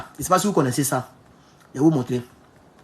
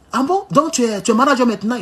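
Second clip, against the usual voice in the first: higher-pitched retold "ah bon?"; surprised question; 6 semitones higher than usual. Policeman asking if driver is manager now, surprised. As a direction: imitate pleasantly intrigued disbelief, pitch lifted.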